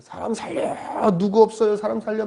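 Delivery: drawn-out, held-back yell; mock cry for help. Pastor dangling from a cliff, mock shouting for help. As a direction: call up the cliff without full volume. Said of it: "위에다 대고 소리를 지르는 거예요".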